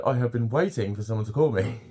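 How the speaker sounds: hammed-up relief at being called; mock eagerness. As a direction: play desperately grateful for the call. Acted eagerness to a telesales caller.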